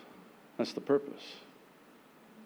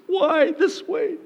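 laughing plea; 5 dB louder, slower than usual. Acted. Believer pleading.

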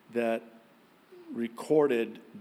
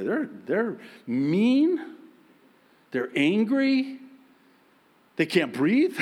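slow, higher, louder mock complaint; mock exasperation; 6 semitones higher, 5 dB louder, slower than usual. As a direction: drag out the list of grumpy customers. Mocking grumpy customers.

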